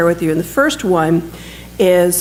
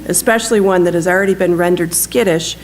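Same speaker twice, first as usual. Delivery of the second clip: measured storytelling with livelier pitch movement; lightly animated reading from a book; story narration. A narrator's reading. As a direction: read the war story aloud to an audience. Reads a written war story aloud.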